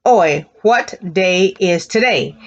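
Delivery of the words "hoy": one word at a time with pauses; word-by-word drill. Shown as a demonstration. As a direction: split it into separate words for the class. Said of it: "Say that again".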